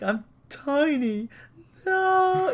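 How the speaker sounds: very high, slow squeak; tiny high voice. Retold or imitated. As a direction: squeak it out small. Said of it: "the one where it's like".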